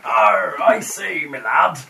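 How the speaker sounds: loud hammy pirate. Acted. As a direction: ham up a pirate captain. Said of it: "my voice is a little bit wrong".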